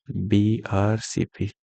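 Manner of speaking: slow, drawn-out mnemonic for students; slow acronym drill. Shown as a demonstration. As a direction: spell the letters out slowly. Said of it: "black red colour poetry".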